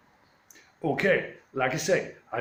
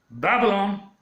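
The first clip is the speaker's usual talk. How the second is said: mock alarm; 6 semitones higher, 5 dB louder than usual. Police sirens approach in retelling.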